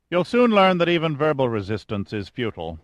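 calm, self-assured commander introducing himself; lightly voiced cool chief engineer. O'Banion voiced by narrator.

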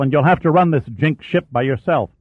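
a touch of an angry snap; snapped. Acted. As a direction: retort hotly. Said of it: "Church snapped".

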